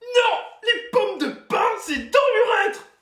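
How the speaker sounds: high, slow squeaky little voice; tiny cartoon plush voice; cutesy baby talk. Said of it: "Brice qui nous a fait une petite voix".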